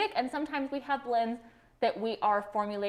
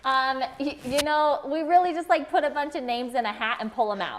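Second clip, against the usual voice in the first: muffled by a face mask; talking through face mask; 3 semitones higher, 5 dB louder than usual. Real, not acted. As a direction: speak with a mask over the mouth. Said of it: "This mask is hard to talk in".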